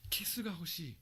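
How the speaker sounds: unvoiced whisper of a wish for a kiss. Teacher demoing a request for a kiss, whispered. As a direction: breathe it out as a whisper.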